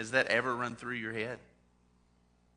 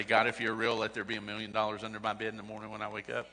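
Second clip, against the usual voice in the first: laughing mock child prayer; 4 semitones lower, 4 dB quieter, much faster than usual.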